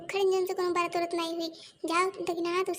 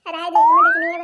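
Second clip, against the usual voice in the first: loud irritated comeback; irritated retort; 13 dB louder than usual. Acted. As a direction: cut her off sharply. Snapping back in family quarrel. (चिढ़कर ऊँची आवाज़ में जवाब)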